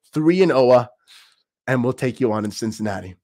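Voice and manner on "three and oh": excited shout. Real, not acted. Hype shout to fans.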